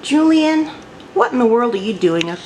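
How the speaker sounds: calling out. Real, not acted. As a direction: call the cat's name loudly. Calling the cat on the cupboard.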